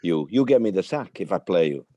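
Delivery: put-on easy Moroccan accent on the manager's lines. Manager telling a striker he'll get him sacked, in a Moroccan accent. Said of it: "my Moroccan accent".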